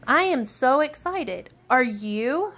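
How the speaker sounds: bouncing with joy; excited kid. Acted. Daniel bursting with excitement.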